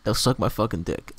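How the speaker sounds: low, deadpan mock-Australian voice; bad Australian accent. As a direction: drop low into an awful Aussie accent. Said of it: "puts on the worst Australian accent ever".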